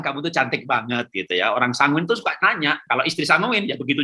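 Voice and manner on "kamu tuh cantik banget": 1 gentle praise. Shown as a demonstration.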